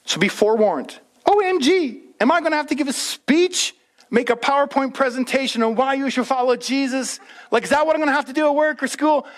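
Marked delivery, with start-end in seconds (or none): 1.2-9.2 high, hammed-up anxious rush; a pretend freak-out, voice jumping up; mock panic. Preacher voicing a nervous congregant's worry, high mock panic.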